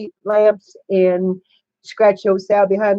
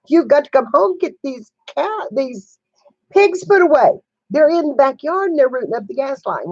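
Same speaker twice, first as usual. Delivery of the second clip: urgent plea; 5 semitones higher than usual. Retold or imitated. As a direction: beg him to hurry home, rising urgency. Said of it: "and I said".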